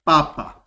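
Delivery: papa with one short p; papa, short single p, mainland style; ordinary Greek pronunciation. Shown as a demonstration. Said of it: "you will pronounce it as".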